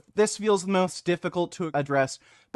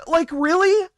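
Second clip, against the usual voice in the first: angry; 10 semitones higher, 6 dB louder than usual. Real, not acted. Ranting at an apology post.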